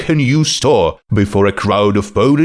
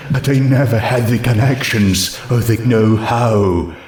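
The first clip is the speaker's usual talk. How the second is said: ghost voice. Acted.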